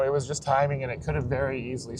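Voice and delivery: talking while the car bounces; on a bumpy road. Real, not acted. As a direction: voice jolted by road bumps. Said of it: "sorry about the bumps".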